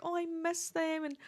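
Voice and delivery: a hammed-up sigh of longing; mock wistful pining. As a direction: play up the pining, half-mocking yourself. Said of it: "I'm like".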